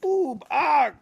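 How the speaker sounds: high, loud ghostly moan; hammed-up spooky monster moan. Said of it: "The monsters moaned".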